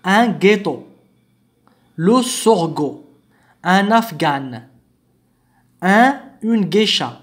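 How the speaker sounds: hard g in gâteau, sorgho, afghan, geisha; word by word, each g as in "go". Shown as a demonstration. Teacher lists example words, hard g in each. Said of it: "تنطق غا".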